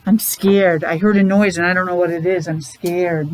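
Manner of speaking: teacher acting scared for the kids; mock scared. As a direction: gasp then lightly acted fear. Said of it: "And afraid".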